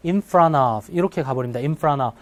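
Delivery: in front of said as "in fran av"; T dropped. Shown as a demonstration. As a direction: drop the T in front. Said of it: "T가 발음이 안 나버려요".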